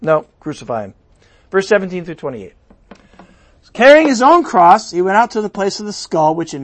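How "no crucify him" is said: voicing the crowd. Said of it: "we said".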